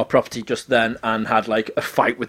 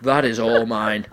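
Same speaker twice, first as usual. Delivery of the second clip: put-on drunk voice; 3 semitones lower, slower than usual. Drunk claim on rug, slow.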